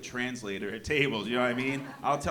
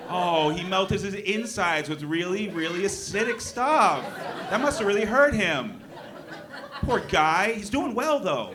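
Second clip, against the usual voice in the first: mock groaning pity; 6 semitones higher, 5 dB louder than usual. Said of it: "the groans that come from audience".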